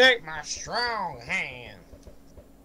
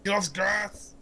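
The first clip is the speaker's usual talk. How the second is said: put-on Scottish accent; 5 semitones higher than usual. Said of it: "I can't do a good Willy".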